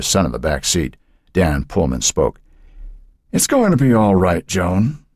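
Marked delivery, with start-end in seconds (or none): 3.3-5.0 gently reassuring police chief, lightly voiced; calm a grieving widow. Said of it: "trying to reassure the woman".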